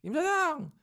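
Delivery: high, loud call across the room; calls out the boss's name like a brash mother; mock shout. Mother hollering for the restaurant boss, loud and high.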